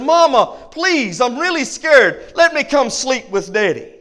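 a mild mock yell of a scared kid; screaming little boy. Boy begs his mama to sleep with Daddy, mild mock yell. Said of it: "he's screaming to the top of his lung".

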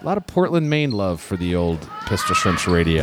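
booming announcer shout; shouted announcement. Acted. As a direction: belt it out like a radio host. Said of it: "repeats with more punch".

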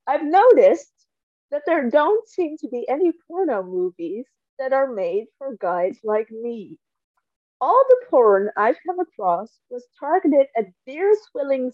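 dry deadpan reading voice; reading aloud. Acted. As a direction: read the passage straight, deadpan. Reads book passage aloud.

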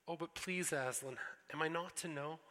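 put-on a little girl begging to be believed; pleading girl Lucy.

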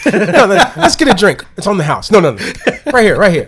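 mock peacemaking. Mock barroom pacifying, laughing.

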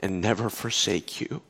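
hushed reassuring divine voice; gentle voice of God. Retold or imitated. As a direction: speak it like a quiet comfort. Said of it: "and he said this".

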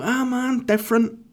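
mock shock. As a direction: squeal it like you're taken aback. Mock shocked reaction to quote.

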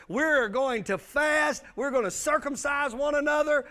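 lightly voiced Joshua commanding his men; preacher half-acting Joshua's order to his officers; commanding leader.

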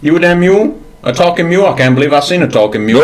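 lightly voiced old Southern gentleman, gruff; a hint of a cranky Southern colonel scolding; mild drawling Southern old-timer. Southern gentleman character amazed.

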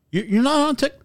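mock disbelief, breaking off; confused fan. Kid told he has the wrong guy, confused imitation. Retelling a confused fan's reaction.

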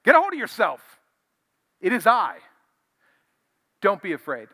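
rally scared men to stand firm; Jesus's bold command. Acted. Jesus commanding frightened disciples.

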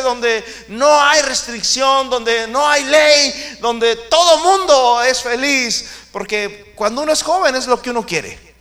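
high, loud, driving sermon voice; preaching at full force. Acted. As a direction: hammer home the point to the church.

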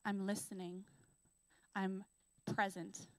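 soft, tender reassurance; still quiet voice. Acted. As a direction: speak it gently, like a close whisper. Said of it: "quiet voice calling you back".

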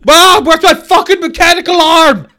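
put-on high, loud bratty kid; whiny kid voice. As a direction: yell for mom like a brat. Acting out young Bezos.

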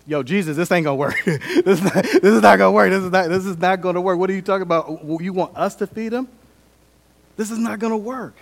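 high, loud, laughing mock protest; incredulous protest. Disciples tell Jesus it won't work, high incredulous protest. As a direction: act out a flustered disciple objecting. Disciples balk at feeding crowd.

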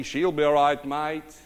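lightly proud mock Australian; proud Aussie accent. Farmer standing between two armies, proud Aussie accent. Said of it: "he's standing there proudly".

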